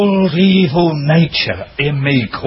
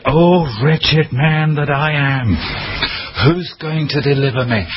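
despairing cry; 4 semitones higher than usual. Retold or imitated. Crying out in despair.

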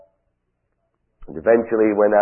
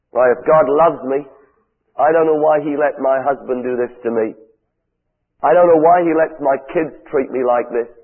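raised, pleading voice of a wounded believer; louder and higher, asking why God let it happen; hurt churchgoer's complaint; 3 semitones higher, 3 dB louder than usual. Retold or imitated. Preacher voicing a hurting listener's complaint to the crowd, raised and pleading. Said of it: "That's what some of you are saying".

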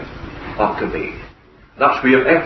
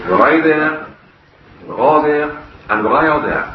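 broad Scots; 3 semitones higher than usual. Retold or imitated. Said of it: "tell you what he said in broad Scots".

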